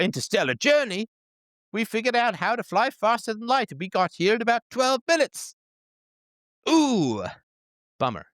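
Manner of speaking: high-pitched, put-on British apology; mock British accent, high and breezily apologetic. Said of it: "maybe with a British accent".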